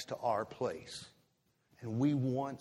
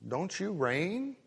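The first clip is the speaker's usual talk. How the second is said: higher, needling taunt that builds louder; mock devil taunting, building louder; goading devil; 8 semitones higher, 6 dB louder than usual. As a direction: egg them on like the devil, rising to a push. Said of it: "And the devil says".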